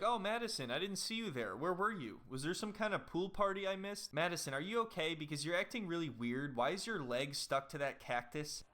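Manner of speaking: high, mock-oblivious Joe. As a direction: play him cheerfully clueless. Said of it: "And then Joe's like".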